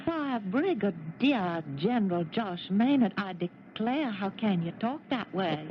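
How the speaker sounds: mock Southern belle accent, slow and coy; wife teasing husband in a put-on Southern drawl; phony Southern accent. Playful fake Southern accent to her husband. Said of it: "that phony Southern accent".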